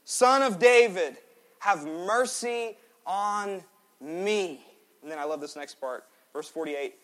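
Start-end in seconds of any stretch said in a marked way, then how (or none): 0.0-4.6 loud, high, drawn-out cry for mercy; shouting blind beggar. Acted. Blind Bartimaeus crying to Jesus, a loud pleading shout. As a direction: call out to Jesus across the crowd, desperate. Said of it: "he began to shout".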